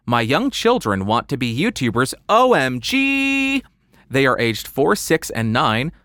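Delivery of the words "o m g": exaggerated OMG. Mock reaction to kids wanting YouTube.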